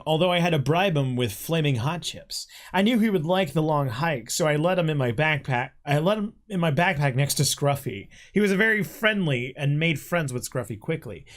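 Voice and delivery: measured story-reading voice; reading aloud. Acted. Friend reading own written story to co-host, read-aloud narration.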